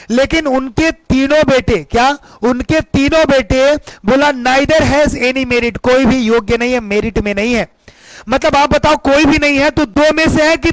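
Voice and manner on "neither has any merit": slow, measured reading; slow dictation. Shown as a demonstration. Teacher rereading the example to students, slowly. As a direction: lay each word down slowly.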